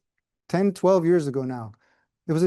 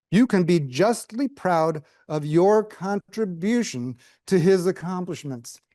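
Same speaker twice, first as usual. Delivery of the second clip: formal letter reading; slower than usual. Retold or imitated. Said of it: "here's the punchline".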